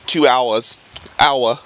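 Boston "two hours" with dropped r; Boston accent. Shown as a demonstration. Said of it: "Another Bostonian slang".

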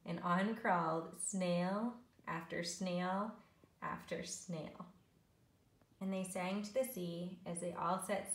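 measured, rhythmic picture-book reading; story narration. A narrator's reading. Teacher reads snail story to learners, storytelling. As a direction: read the rhyme to young children, savouring it.

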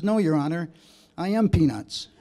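laughing as he delivers the punchline; words breaking into a chuckle; laughing through punchline. Retold or imitated. Confessing to the judge, laughing at the punchline.

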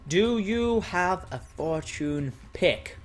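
words drawn out slowly; slow typing read-out. Real, not acted. Player types a question to someone, slowly. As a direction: sound it out as you type.

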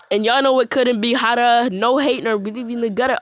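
rapping without a breath. Real, not acted. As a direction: hold the breath through the bars. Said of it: "I did not breathe at all".

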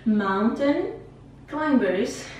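Mountain and Climbers split apart, each ending on a rise; kids' show repeat-after-me. Shown as a demonstration. Teacher having students repeat, children's show style. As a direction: lead the class like a children's TV host. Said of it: "repete comigo, igual programa de criança".

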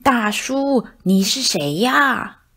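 loud, ringing, slow ask; loud clear voice. Acted. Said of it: "用洪亮的声音问了一遍". (小老鼠用洪亮的声音再问一遍)

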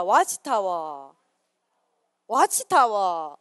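와치타워 drawn out very slowly, syllable by syllable; drilled word. Shown as a demonstration. Pastor drilling the word 와치타워 for youth to repeat, very slowly. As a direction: stretch 와치타워 for them to echo. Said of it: "따라합니다".

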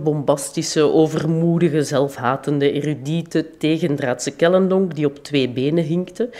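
measured formal reading voice; formal lecture reading. Acted. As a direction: read the lecture aloud to a hall. Reads out her prepared lecture.

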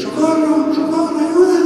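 high, desperate shout for help; cries for help. Acted. Drowning people crying out high for rescue. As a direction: scream it like someone drowning.

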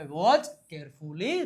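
watch carefully drawn out slowly; slow model. Shown as a demonstration. Teacher modelling watch carefully slowly. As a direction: say it slowly for learners. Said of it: "teacher models English phrase".

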